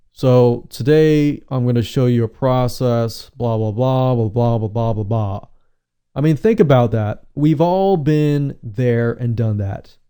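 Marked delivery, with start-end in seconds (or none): 0.1-5.4 low, flat droning presenter; monotone voice. Retold or imitated. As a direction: drone on like a bored host. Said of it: "talks in a monotone voice".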